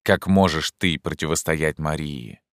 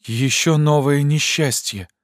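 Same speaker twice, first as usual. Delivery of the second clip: much higher and slow, near panic; frightened cry; 10 semitones higher, slower than usual. A narrator's reading. Maria dreads fresh misfortune, slow, high panicked cry. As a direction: cry it out, dreading a new blow. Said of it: "вскричала Мария, почти задыхаясь".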